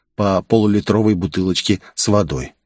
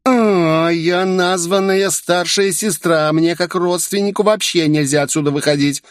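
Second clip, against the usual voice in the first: elder sister; 10 semitones higher than usual. Acted. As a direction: announce yourself grandly as the big sister. Self-named elder sister speaks.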